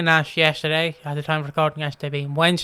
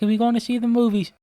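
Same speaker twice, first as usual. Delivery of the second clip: put-on childish pleading; 6 semitones higher, faster than usual. Childlike question.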